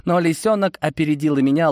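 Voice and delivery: ordinary talk, nothing marked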